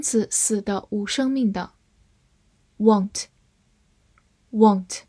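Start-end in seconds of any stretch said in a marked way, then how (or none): 2.8-5.0 want said with an American open vowel. Shown as a demonstration. Teacher reviewing the word want, American pronunciation. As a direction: say want twice, American style. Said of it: "美式发音want".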